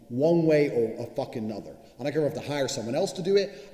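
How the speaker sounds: normal talking voice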